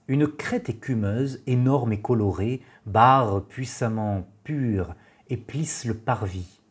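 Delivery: measured poem reading with pauses between lines; poetry recitation. Acted. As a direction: recite the verse evenly, letting each line settle. Reads Valéry's poem aloud.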